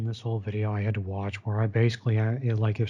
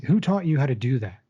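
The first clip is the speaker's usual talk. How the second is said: lightly voiced brusque boss, quick; quick challenge, mildly imitating an overbearing boss; alpha male manager; 3 dB louder, faster than usual. Alpha male manager questioning his worker, lightly imitated quick challenge. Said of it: "In that sort of voice".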